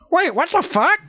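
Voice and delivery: high disbelieving wait; shocked. Real, not acted. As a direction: blurt it out high. Shock at video message.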